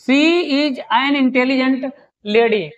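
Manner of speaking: spaced out very slowly, word by word; slow dictation. Shown as a demonstration. Teacher reading the example aloud to students, very slow. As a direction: dictate it for the board. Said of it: "और देखिए".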